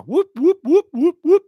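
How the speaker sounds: loud high-pitched repeated whoops; excited whooping. Real, not acted. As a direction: whoop like an alarm going off. Whooping after calling for VAR.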